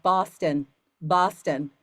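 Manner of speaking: loud, flat repeated answer; imitating Boston. Student answering coach with her city, mock loud. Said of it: "And she's like".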